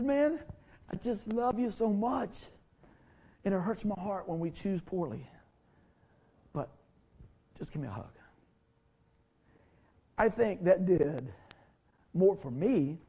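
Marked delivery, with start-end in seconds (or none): 0.0-8.1 tender father. Retold or imitated. Father forgiving son.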